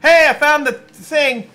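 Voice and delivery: high, slow excited call; excited exclaim. Real, not acted. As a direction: announce it with delight. Excited discovery.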